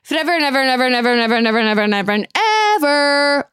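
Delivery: fast breathless repeating; rapid run-on. Real, not acted. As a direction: rattle it off fast and playful. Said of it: "a month I'm gonna cherish".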